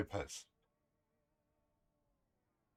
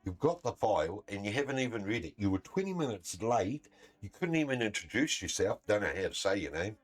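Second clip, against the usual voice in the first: raised, louder, telling him off hard; angry retold rant; 5 semitones higher, 7 dB louder than usual. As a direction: let the fury out at the doctor who never read the file.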